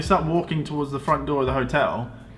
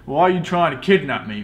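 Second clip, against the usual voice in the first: incredulous; 5 semitones higher, 3 dB louder than usual. Retold or imitated. Confronting the men at door.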